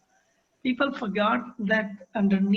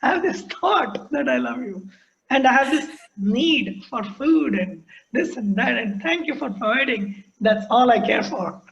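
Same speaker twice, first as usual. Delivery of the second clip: mock robotic confession; 3 semitones higher, 4 dB louder than usual. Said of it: "Try saying that".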